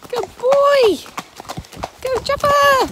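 high, loud calls of praise; cheering shout. Real, not acted. Owner cheering her horse on its first hack, shouted praise. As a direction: cheer the horse on across the field.

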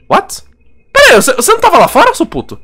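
high fast incredulous cry; shocked outburst. Real, not acted. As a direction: blurt it out in disbelief. Surprised impostor is back inside. (espanto agudo e rápido)

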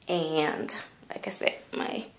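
soft unvoiced whisper. Real, not acted. Telling viewers a little secret in a hushed whisper. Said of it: "whispered aside".

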